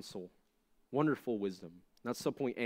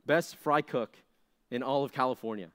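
mock announcement; 3 dB louder than usual. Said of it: "It's like if it said".

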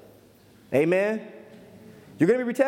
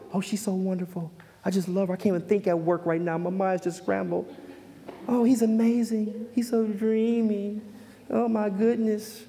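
euphoric infatuation. Acted. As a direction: gush dreamily, hammed-up and lovestruck. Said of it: "most people go through a euphoric stage".

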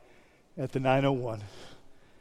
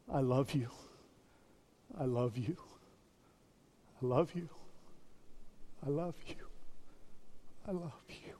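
each repeat softer until whispered; wife's written words read softer and softer to a whisper; fading to a whisper; 15 dB quieter than usual. Retold or imitated. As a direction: let it die away into a whisper.

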